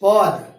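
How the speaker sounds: पद as a loud, separate chunk; reading demonstration. Shown as a demonstration. Teacher walking students through the sutra, emphatic पद. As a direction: say पद firmly on its own. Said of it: "फिर क्या पद पढ़".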